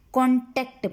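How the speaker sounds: कॉन्टैक्ट with the "टैक्ट" pressed; stress on T. Shown as a demonstration. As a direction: lean on the T that opens the second syllable of कॉन्टैक्ट. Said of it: "टी पे stress है". (कॉन्टैक्ट में ट पर दबाव)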